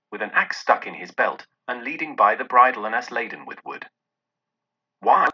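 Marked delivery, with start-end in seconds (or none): 5.0-5.3 ecstatic exclaim. A narrator's reading. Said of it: "Scrooge exclaimed in ecstasy".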